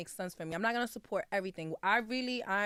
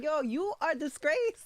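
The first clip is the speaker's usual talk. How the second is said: mock scolding friend; 8 semitones higher, 3 dB louder, slower than usual. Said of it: "calling me a fake Dominican".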